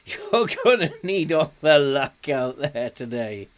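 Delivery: a hint of a gruff boss; imitating a manager. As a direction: manager giving a grim pep talk, lightly voiced. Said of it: "Your manager tells you, like".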